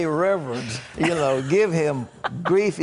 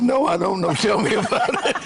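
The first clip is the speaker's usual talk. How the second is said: lifted, teasing retort in a higher voice; mock quote of Ben; 8 semitones higher, 4 dB louder than usual. Retelling Ben's cheeky reply to a guest, mock sarcastic. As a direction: play it as a sarcastic little jab. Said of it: "and Ben said".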